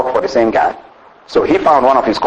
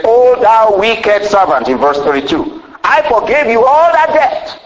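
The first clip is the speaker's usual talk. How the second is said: stern master; 6 semitones higher than usual. Acted. Master rebukes the wicked servant, stern and rising. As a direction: scold him like a wronged king. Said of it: "the master called him and said".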